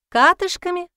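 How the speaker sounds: high, startled repeat of a word; puzzled question. A narrator's reading. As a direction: ask it back in disbelief. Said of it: "не поняла Алевтина".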